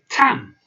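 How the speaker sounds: "tam" said with a short open a and a clear m; Russian tam. Shown as a demonstration. Teacher introducing a new Russian word to learners. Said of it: "that means over there".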